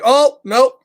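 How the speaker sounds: mock frightened nope; a hammed-up little scare; scared. Pigeon testing the bath water, mock scared. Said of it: "but he's kinda scared".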